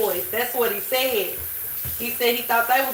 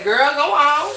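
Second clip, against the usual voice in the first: dismissive; 5 semitones higher, 5 dB louder, slower than usual. Pretend. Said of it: "I'm gonna say".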